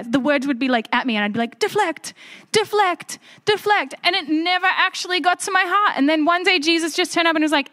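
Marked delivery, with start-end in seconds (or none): 1.6-3.9 high, short repeated word; mock deflecting. Teenager in church dodging the message, high mock deflecting. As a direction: bat each word away in a raised voice. Acts out batting the message away.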